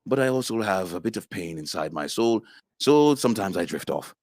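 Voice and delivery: boast, then ease down for the hidden pain; Yask. Shown as a demonstration. Actor demonstrates his strongest warrior, boasting then subdued. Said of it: "I'm the most powerful Nightskin".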